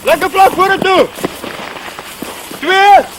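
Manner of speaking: shouted orders. Real, not acted. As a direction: drill commands called across open ground. Shouting orders during field drill.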